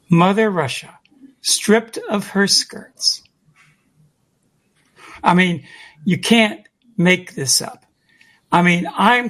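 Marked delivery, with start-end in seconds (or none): 0.1-3.2 slow, deliberate repeat of a quotation; measured, each phrase weighted and separate; slow and emphatic. Retold or imitated. Speaker dwelling on the quoted words, slow and emphatic. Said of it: "say it real slowly and emphatically".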